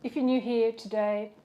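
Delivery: mouth full. Real, not acted. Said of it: "Stop talking with my mouth full".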